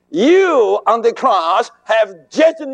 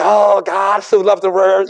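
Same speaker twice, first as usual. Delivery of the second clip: quoting many men. Retold or imitated. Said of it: "Many men say".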